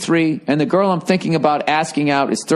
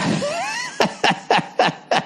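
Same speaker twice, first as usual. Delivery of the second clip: big laugh; 4 dB quieter than usual. Real, not acted. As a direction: let out a big whooping laugh. Laughs at his own blunt advice.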